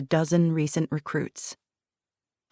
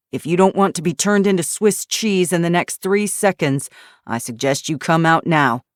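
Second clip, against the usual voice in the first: threat; 4 dB louder than usual. Acted. Eli threatens hidden figures.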